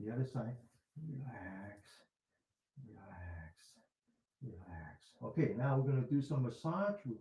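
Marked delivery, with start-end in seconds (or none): 1.1-5.1 soft whispered relax. Shown as a demonstration. Teacher guiding the other side, whispering. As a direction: hush the words out to yourself. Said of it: "whisper to ourselves by saying".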